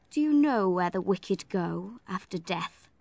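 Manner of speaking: low, slow fire-and-brimstone clergyman; stern clergyman. Acted. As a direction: menace a child with hell. Brocklehurst's voice again.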